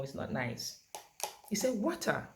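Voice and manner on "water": WATER as a single higher, falling word; one simple word. Shown as a demonstration. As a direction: give WATER alone, as a clear label. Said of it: "one word".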